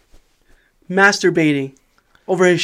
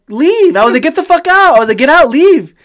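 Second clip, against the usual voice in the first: mock yell; 6 semitones higher than usual. Ordering stranger out of truck.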